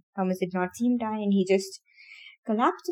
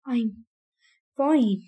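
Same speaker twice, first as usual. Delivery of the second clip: out of breath. Acted. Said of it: "he said between breaths".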